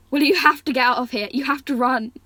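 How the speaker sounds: fast, loud, pushing her to go; urgent begging to run; urgent plea. Acted. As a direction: brother urging his sister to flee, urgent and loud. Urgent plea from prison cell.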